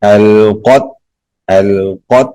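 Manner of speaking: "القت" with smooth l and stopped t; closed final ta. Shown as a demonstration. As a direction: glide through the l, shut "القت" on the t. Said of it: "تا پہ آواز بند کریں گے".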